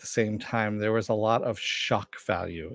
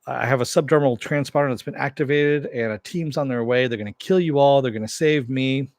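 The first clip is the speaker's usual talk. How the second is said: pissed off; 3 semitones higher, 4 dB louder than usual. Retold or imitated. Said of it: "he's pretty pissed off".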